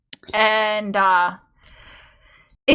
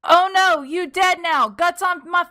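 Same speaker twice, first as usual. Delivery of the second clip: mock creepy reading; 8 semitones higher than usual. Reading creepypasta nonsense aloud.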